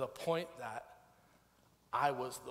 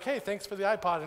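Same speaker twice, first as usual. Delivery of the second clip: higher, louder imagined greeting; cheery thanks; 7 semitones higher, 7 dB louder than usual. Retold or imitated. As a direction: imitate an upbeat friend saying thanks. Imagined friend cheerily thanking him.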